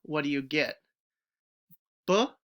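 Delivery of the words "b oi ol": sounded out phoneme by phoneme; stretched sounds. Shown as a demonstration. Teacher sounding out the changed word for the class. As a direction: pull the sounds apart. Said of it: "to the oi".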